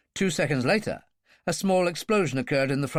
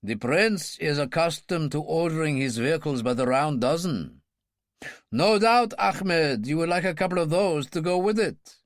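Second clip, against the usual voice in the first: dry; 2 semitones higher than usual. Acted. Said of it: "The king said dryly".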